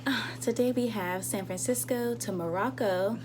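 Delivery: smooth cabin announcement voice; flight attendant voice. Real, not acted. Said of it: "The flight attendant voice".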